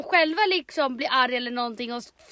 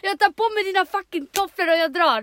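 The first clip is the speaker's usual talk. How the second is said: loud, high theatrical outburst; mock angry walkout; 6 semitones higher, 6 dB louder than usual. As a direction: announce a huffy exit at full volume. Acted first-date walkout. (spelat, högljutt utbrott)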